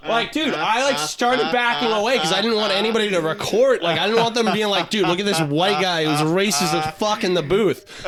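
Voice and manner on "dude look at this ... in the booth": Jamaican voice. Retold or imitated. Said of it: "he's doing a Jamaican voice".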